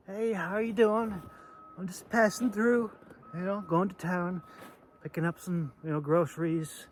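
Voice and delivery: high, breezy mock-friendly greeting; a pretend cheerful hello that settles back down; friendly traveller. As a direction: act the harmless passer-by, light and chatty. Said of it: "what looks more friendly?".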